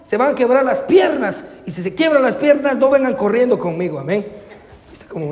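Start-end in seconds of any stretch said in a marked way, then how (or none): 0.1-4.0 retold parental yell. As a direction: scold the children as a mock-shouting parent. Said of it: "les grité y les dije".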